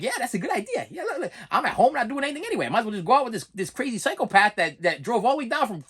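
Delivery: laughing girlish voice, mocking; lightly voiced giggling girl; mock airheaded girl, laughing. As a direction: play a giggly girl who thinks it's a fine idea. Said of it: "some of you girls out there be like".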